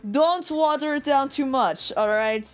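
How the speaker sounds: lightly imitated Russian server; amateur Russian accent; attempted Russian accent. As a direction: give the instruction in a rough Russian accent. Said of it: "I can't do a fucking Russian accent".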